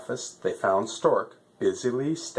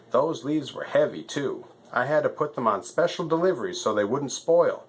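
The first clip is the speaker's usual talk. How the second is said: lightly voiced fussy postmaster stork, pitched up; 3 semitones higher than usual.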